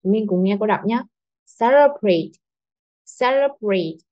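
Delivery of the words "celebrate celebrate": "Celebrate" with strong "Ce", dropping to the end; first-syllable stress. Shown as a demonstration. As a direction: hit "Ce", pass lightly over "le". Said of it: "rất là mạnh đúng không".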